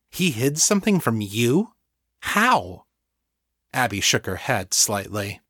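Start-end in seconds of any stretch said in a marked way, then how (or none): 0.1-2.8 incredulous question, voice leaping high; higher-pitched, amazed disbelief; astonished. A narrator's reading. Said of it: "stared up at her in astonishment".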